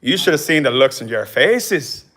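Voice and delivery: drawn-out attempt at an Irish accent. Showing off to the livestream, Irish accent. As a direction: put on Irish, drawing the words out. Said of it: "I could do Irish".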